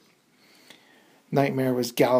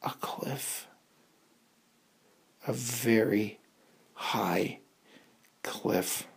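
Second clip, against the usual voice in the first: hushed dread; 5 dB quieter, slower than usual. A narrator's reading. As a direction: let it drop to a whisper. Cliff reveal hushed.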